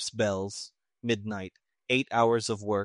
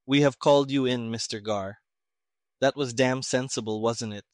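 a touch of sarcasm, slightly raised; mock-polite jab at the civilian; sarcastic. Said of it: "The colonel became sarcastic".

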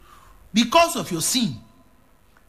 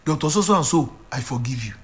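mild tearful repeating; 4 semitones lower than usual. Retold or imitated. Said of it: "And he began to repeat".

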